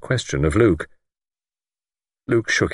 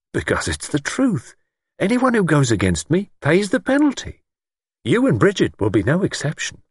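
high-pitched, fanatical certainty; self-important lord; 10 semitones higher than usual. A narrator's reading. Lord warns all who go against him, grandiose menace. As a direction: pronounce the threat as absolute truth.

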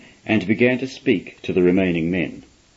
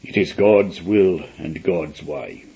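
slow, lower, sorrowful preacher; almost sad; 5 semitones lower, slower than usual. A narrator's reading. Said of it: "speaking in an almost sad voice".

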